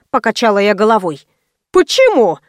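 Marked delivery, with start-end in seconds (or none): 1.7-2.4 exclaimed. A narrator's reading. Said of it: "в один голос воскликнули".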